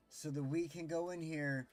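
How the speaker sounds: mildly heated, passionate rant; a little heated. Real, not acted. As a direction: vent real frustration, leaning on the swear words. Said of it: "I'm getting a little heated".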